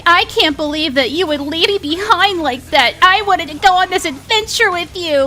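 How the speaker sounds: mocking Connie. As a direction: sneer at her complaint. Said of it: "Connie's like".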